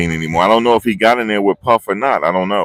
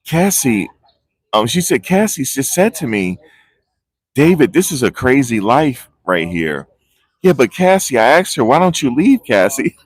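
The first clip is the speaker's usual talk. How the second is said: higher, sing-song mock of a rehearsed witness; 5 semitones higher than usual. Vlogger mocking a trial witness's rehearsed story, higher sing-song. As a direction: parody testimony as overacted. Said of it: "this is like they're acting".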